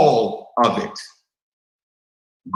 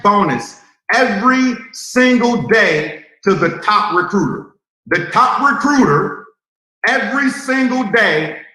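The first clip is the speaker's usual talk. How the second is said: announcer hype; 4 semitones higher than usual. Real, not acted. Big promotion announcement.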